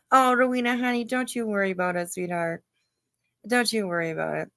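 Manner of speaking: syrupy, patronising reassurance; mock sweet. Real, not acted. Talking down to Rowena, mock sweetness. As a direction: condescend with fake tenderness.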